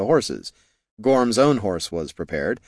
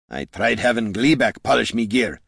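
gruff dwarf voice. Acted. Gorm speaks.

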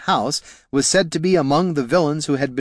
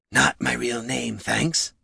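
slow, lightly put-on creature voice; dry little familiar; 4 dB quieter, slower than usual. Boots correcting Jelana on the name, slow dry creature voice. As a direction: correct them drily, taking your time.

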